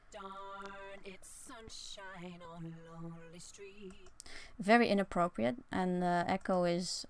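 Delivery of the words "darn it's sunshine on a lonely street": sung through a time-shift voice filter; robot-filtered singing line; robotic voice effect. Shown as a demonstration. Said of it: "more or less like a robotic voice".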